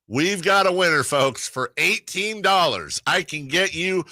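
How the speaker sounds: hammed-up announcer voice; game show host. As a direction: sell it like a TV pitchman. Mock salesman announcement.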